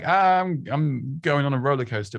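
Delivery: mock thrill, starting high; hammed-up roller-coaster excitement; over-the-top excitement. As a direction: overdo the excitement as a bad example. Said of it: "not like".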